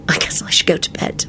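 soft, breathy-hushed murmur; whispered. A narrator's reading. Woman withdrawing to bed, whispering. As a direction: say it under the breath. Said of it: "she whispered".

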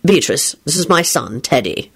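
low-ending polite introduction. A narrator's reading. Lupin presents his son to Beatrice, politely. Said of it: "Lupin told her politely".

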